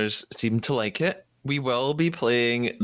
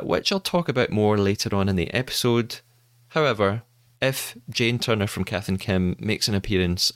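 measured, scripted presenter delivery; podcast intro read. Acted. Host briefing listeners on the show news, presenter read. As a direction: read it out clearly as a show opener.

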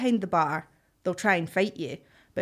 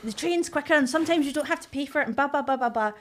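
higher, mocking take on the boyfriend; 5 semitones higher than usual. Girlfriend mocking her boyfriend's train argument, higher and dismissive. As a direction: lightly parody the know-it-all boyfriend. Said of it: "'cause he's like".

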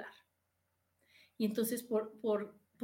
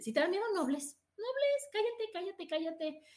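mind hushing you; 7 semitones higher than usual. Retold or imitated. Fearful mind silencing you.

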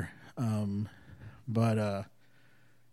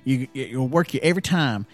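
put-on raised, louder, rambling old-timer voice; mock old fisherman; 5 semitones higher, 7 dB louder than usual. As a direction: ham up a mumbling old fisherman sharing his big secret. Retold old fisherman giving secret.

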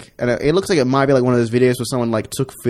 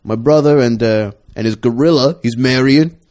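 mild, hammed-up Italian-American accent. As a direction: lean into a light Italian accent. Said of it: "he's getting more and more Italian".

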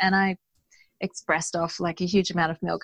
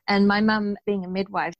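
usual speaking voice

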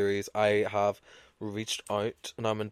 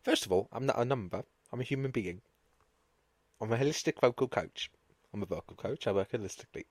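mock vocal coach; 3 semitones lower, 9 dB quieter than usual. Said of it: "she was there for".

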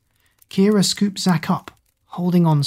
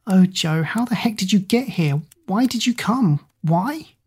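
excited; 4 semitones higher than usual. Acted. Overjoyed, baffled at Joe's arrival.

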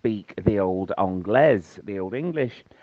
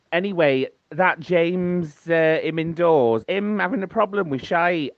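higher, nosy gossip voice; gossipy voice; 6 semitones higher than usual. Real, not acted. Comic gossipy voice.

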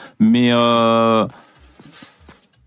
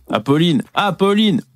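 calling out; 6 semitones higher than usual. Real, not acted. Calling out to TV guest.

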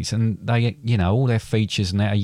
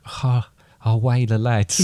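mock Geordie cheer; Geordie accent; 2 semitones higher than usual. Dad showing off his best Geordie for the football score, mock Geordie accent. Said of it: "In my best Geordie accent".

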